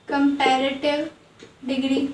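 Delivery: comparative stretched out very slowly, ending on a rise; slow careful repeat. Shown as a demonstration. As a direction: spell it out slowly for the class. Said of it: "teacher repeats the term". (धीरे-धीरे खींचकर, अंत में उठता सुर)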